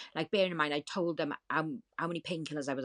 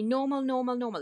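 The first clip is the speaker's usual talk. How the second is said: higher, louder sing-song mimicry of the nurse; mocking the nurse; 8 semitones higher, 5 dB louder than usual. Mocking the nurse who keeps repeating it, higher and louder. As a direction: parrot her dismissive word back in a high voice. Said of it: "she was saying to me".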